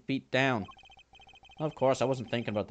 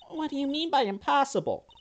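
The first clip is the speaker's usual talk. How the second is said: high-pitched startled question; startled disbelief. Acted. Reacting to impossible news, startled and high.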